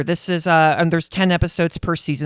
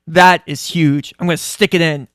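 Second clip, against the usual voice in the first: plumber; 8 dB louder than usual. Retold or imitated. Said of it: "the one plumber's like".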